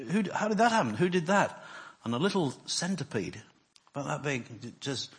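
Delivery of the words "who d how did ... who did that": lightly voiced lion, high and laughing; the lion asks who did it, pitched up with a laugh; amazed lion. Preacher telling a joke voices the lion, high and amused. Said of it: "the lion says".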